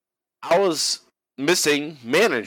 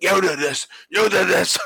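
hammed-up blame hurled higher; mock yell; 8 semitones higher than usual. The speaker blaming the crowd for his slip, mock yelling. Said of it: "blaming it on the crowd".

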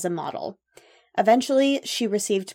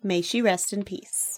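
solemn; 4 dB quieter than usual. Real, not acted. Solemn tribute, slower.

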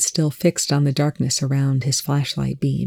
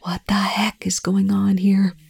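higher, urgent hoarse whisper; strained, whispered exasperation; 5 semitones higher than usual. A narrator's reading. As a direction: whisper it hoarsely, demanding an answer. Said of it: "said in a hoarse whisper".

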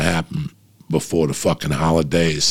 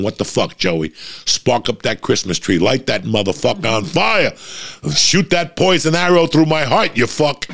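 high, rising mock shout from the parents above; hammed-up parents cheering from heaven; 7 semitones higher than usual. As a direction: egg him on like rowdy ghost parents. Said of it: "They're looking down on me going".

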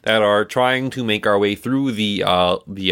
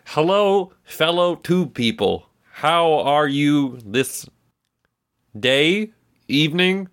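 high voice, slow and unsure of the time of day; high, halting toil voice; 4 semitones higher, slower than usual. Acted. Toil stumbling over a greeting to the snake men, in a high voice. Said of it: "And they say".

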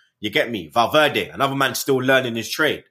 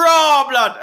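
retold awe; 13 semitones higher, 7 dB louder than usual. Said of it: "I was like".

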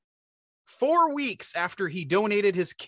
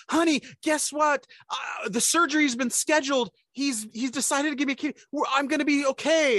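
mother's voice; 9 semitones higher than usual. Retold or imitated. Mother phoning daughter, high voice.

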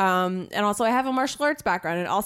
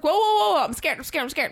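mock scared; 6 semitones higher than usual. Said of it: "Shane was like".

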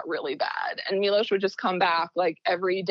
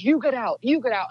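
mild mock yell, raised pitch; retold scream, held back; 4 semitones higher, 4 dB louder than usual. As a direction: imitate an angry order to leave, only slightly louder. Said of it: "starts screaming at her".

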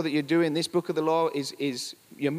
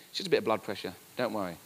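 soothing nurse; 7 semitones lower, 4 dB quieter, faster than usual. Retold or imitated. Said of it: "They said".

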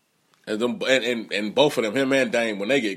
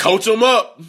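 hype call; 5 semitones higher, 4 dB louder, slower than usual. Real, not acted. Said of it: "Coach 'em up".

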